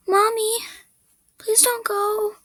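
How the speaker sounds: put-on high-pitched sad child's plea; sad audition read. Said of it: "finally we have sad".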